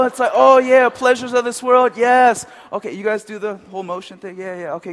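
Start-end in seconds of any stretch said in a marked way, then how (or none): 0.3-2.5 loud, high mock ecstasy; hammed-up bliss. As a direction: cheer theatrically for temptation. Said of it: "I'm gonna do different voices".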